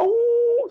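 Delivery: high-pitched mock wail; imitated cry. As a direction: let out a high imitated sob. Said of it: "Teriak dia". (tiruan teriakan tangis yang nyaring)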